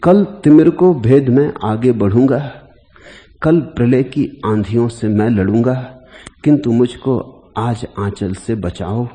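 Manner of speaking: measured, declaimed Hindi verse; poem recitation. Acted. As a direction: recite the verse with weighty opening words and deliberate pauses.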